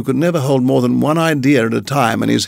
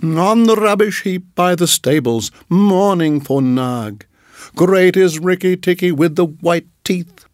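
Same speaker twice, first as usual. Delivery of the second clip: higher, excited chirpy bird; little bird voice; 6 semitones higher than usual. Acted. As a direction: chatter proudly like a small bird. Darzee voice.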